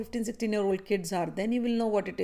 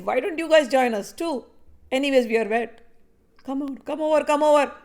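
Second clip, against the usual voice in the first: playful invitation; 3 semitones higher than usual. Acted. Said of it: "Shri Krishna looks at".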